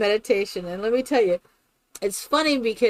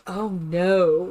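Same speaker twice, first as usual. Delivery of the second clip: lower, teasing denial; mock innocent denial; 4 semitones lower than usual. Girl denying she makes fun, mock innocent. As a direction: imitate a playful, feigned innocence. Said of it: "You're making fun of me".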